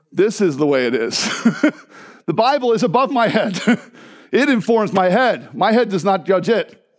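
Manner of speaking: imitated German accent, firm and deliberate. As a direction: declare it in a thick German accent. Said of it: "she was a thick German accent".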